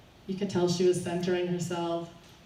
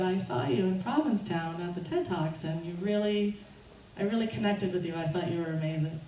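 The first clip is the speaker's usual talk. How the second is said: composed, slightly lowered voice; calm; 2 semitones lower, 4 dB quieter than usual. Retold or imitated. Fan calming down after scaring the speaker, calm and collected. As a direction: say it evenly after a steadying breath. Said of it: "and I said calmly".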